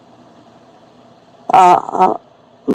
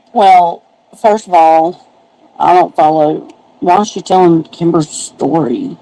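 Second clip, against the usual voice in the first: muffled. Real, not acted. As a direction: voice muffled as if through a wall. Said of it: "You sound muffled a little bit".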